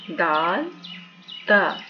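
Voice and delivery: दाल and ता said loud and separate; letter drill. Shown as a demonstration. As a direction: recite each letter crisply. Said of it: "तो".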